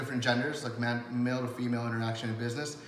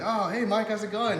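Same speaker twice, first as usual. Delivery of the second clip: a much higher, cheerful reply; friendly stranger; 9 semitones higher, 5 dB louder than usual. Pretend. A new contact greeting Mike back, in a higher, cheerful voice. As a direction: answer Mike as if already pals. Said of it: "And they're like".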